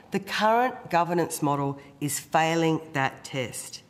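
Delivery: hoarse, rough-throated speech; croaky voice. Real, not acted. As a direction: speak through a sore, croaky throat. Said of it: "apologies once again for the croaky voice".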